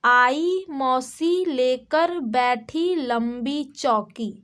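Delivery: put-on slow sing-song reading of a children's rhyme; rhyme recitation. Shown as a demonstration. Teacher to kids, reciting the rhyme slowly. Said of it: "okay, देखिए".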